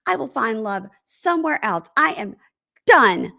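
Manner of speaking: theatrical mock resolve, building to finality; melodramatic declaration. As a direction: imitate a dramatic farewell to love. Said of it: "So dramatic".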